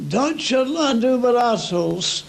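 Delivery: loud mocking shout back; shouted retort. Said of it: "our fellow would shout".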